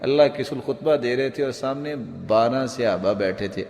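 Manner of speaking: ordinary talk, nothing marked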